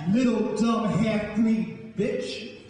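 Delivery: slow, venomous snarl. Acted. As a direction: spit the insult out slowly. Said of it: "snarled Betsy".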